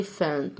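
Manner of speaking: "elephant" drawn out, PH as F. Shown as a demonstration. Teacher shows pupils the PH rule, "elephant" with F. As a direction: say "elephant" slowly with an f sound. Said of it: "يبقى ده حرف ال F".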